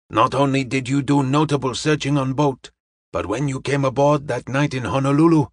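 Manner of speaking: measured, formal praise for an assistant; a hint of Charlie Chan, ceremonious and proud; lightly voiced proud detective.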